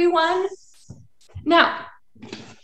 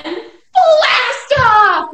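higher, louder launch with a laugh; laughing blast off; 8 semitones higher, 6 dB louder than usual. Acted. Teacher laughing as she calls blast off to the kids, high and loud.

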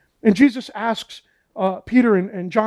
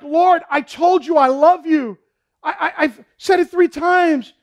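acted exasperation, higher than the telling; frustrated; 5 semitones higher than usual. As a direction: protest like a disciple tired of being asked. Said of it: "Now Peter gets frustrated".

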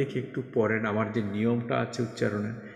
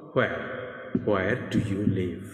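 very slow, words drawn out for learners; slow tense drill read to a class; 4 semitones lower, much slower than usual. Shown as a demonstration. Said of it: "এইভাবে করে আপনি tense অনুযায়ী".

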